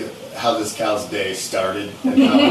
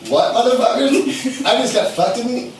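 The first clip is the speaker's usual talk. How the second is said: high, indignant voice of the cow, dragging the words; cow's outraged voice; 8 semitones higher than usual. Retold or imitated. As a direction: play the wronged cow, squeaky and furious. Cow voiced in retold story.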